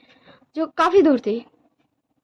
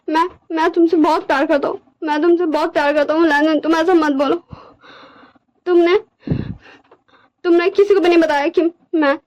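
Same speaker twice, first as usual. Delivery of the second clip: distressed, pleading character voice, mildly raised; pleading Wing; 5 semitones higher than usual. Acted. Wing begs Lanjan not to reject their love, pleading. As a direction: plead urgently, stumbling over repeated words.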